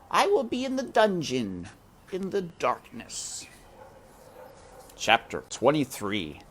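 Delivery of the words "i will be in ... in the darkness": muttered. A narrator's reading. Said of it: "muttered Roscuro".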